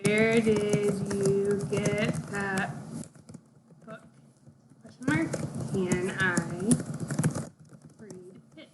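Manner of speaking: each word slowed down and spaced out; slow, careful dictation. Shown as a demonstration. Teacher to kids, slow corrected sentence. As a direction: read it slowly like a model sentence for kids. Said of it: "Your sentence should look like".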